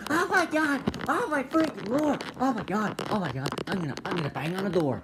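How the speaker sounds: high squeals that tumble down; excited squealing dog voice. Pretend. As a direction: pretend the dog can't contain her joy. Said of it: "she's like".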